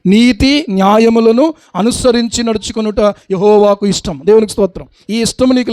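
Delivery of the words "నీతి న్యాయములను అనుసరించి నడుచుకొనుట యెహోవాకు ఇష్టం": slow, every word of నీతి న్యాయములను weighed; slow emphatic repeat. Shown as a demonstration. Preacher repeating the verse to drive it home, slow and weighty. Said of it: "నీతి న్యాయాన్ని అనుసరించడం ఇష్టమా?".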